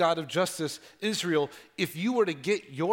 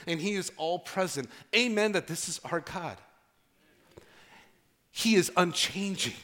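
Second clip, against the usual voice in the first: steady, solemn rhythmic proclamation; preaching litany. Acted. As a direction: proclaim each name of God like a creed. Opening litany of God's names.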